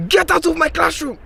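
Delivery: high, dismissive mock African accent; imitated African accent. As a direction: throw the boy out in a teacher's accent. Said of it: "he did this funny accent voice".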